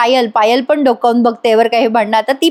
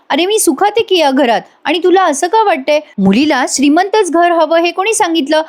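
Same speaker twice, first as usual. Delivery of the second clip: earnest, pitch lifted in gentle protest; heartfelt; 4 semitones higher than usual. Retold or imitated. Avni defends the family home to Panya, heartfelt. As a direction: reassure him from the heart. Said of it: "हे सगळं जेव्हा मनापासून बोलत असते".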